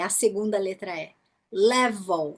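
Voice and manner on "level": 'level' with the second E dropped; silent second E. Shown as a demonstration. Teacher modelling 'level' for students, second E silent. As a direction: go from V straight to L in 'level'. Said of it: "você passa de V para L".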